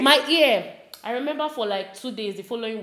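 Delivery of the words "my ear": laughing, higher and louder; laughing through the memory; laughing complaint. Real, not acted. Laughing recalling pain.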